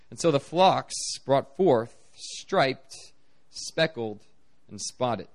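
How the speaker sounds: measured, slowing Bible reading; scripture reading. Acted.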